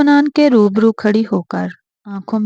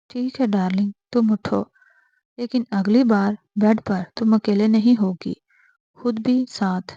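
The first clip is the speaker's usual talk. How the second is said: cold tone. Acted. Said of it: "وہ سرد لہجے میں".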